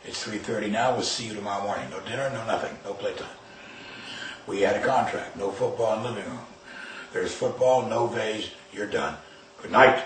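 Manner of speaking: quiet, even, controlled calm. Retold or imitated. Father calmly sending his son to his room. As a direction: hold the anger down and speak evenly. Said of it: "So I said very calmly".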